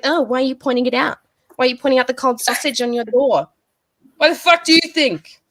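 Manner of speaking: incredulous, fast mocking questions; sarcastic retort. Scoffing at a critic, fast sarcastic retort. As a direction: fire back fast with scorn.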